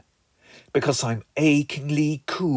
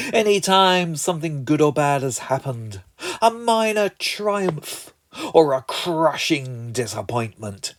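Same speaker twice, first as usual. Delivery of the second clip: grand narration; slower than usual. Acted. Robert opening his tea show grandly. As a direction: announce it like an epic opening. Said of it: "it would start something like this".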